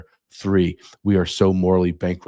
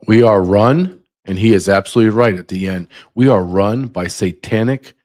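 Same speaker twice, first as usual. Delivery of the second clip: much louder, hammering "We are run"; fired-up rant; 2 semitones higher, 7 dB louder than usual. Real, not acted. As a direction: bellow it like a rally cry. Ranting reaction to clip.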